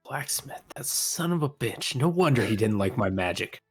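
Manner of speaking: angry character voice. Acted.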